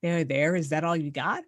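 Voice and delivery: "There, there?" rising into a mild disbelieving question; tossing his words back in mock disbelief; a touch of indignant surprise, the second "there" rising; incredulous echo. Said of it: "she goes".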